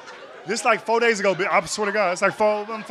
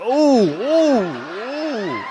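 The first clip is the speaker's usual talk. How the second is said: mock ooh; 4 semitones higher, 6 dB louder, much slower than usual. Crowd reacting to a burn.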